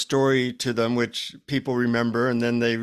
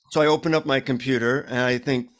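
ordinary talk, nothing marked

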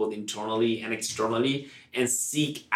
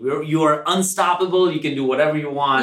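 rousing pep; 4 semitones higher, 5 dB louder than usual. Retold or imitated. Voicing empowered listener.

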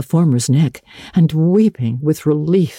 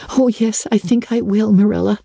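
optimistic; 9 semitones higher than usual. A narrator's reading. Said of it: "returned Anne optimistically".

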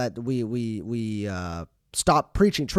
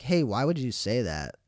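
calm reply; 3 semitones lower than usual. Retold or imitated. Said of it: "when I respond calmly".

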